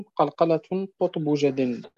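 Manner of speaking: slow measured recitation of the verse; recited verse. Shown as a demonstration. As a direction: recite the line slowly and evenly. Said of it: "وقال الناظم". (تلاوة بطيئة للبيت)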